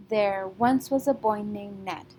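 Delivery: put-on slight lift on once, boy and Ned; stressed beats. Shown as a demonstration. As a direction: read it in rhythm, once, boy, Ned a little stronger. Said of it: "once, boy, and Ned are said a little bit louder".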